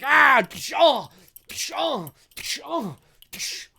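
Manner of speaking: high cries with hissed impact sounds; imitated hits and yelps; wrench-attack noises. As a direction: act out repeated blows, each cry fading. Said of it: "And he's like".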